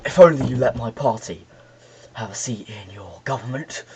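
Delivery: lightly voiced film Hitler. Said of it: "that's how he sounded in the film".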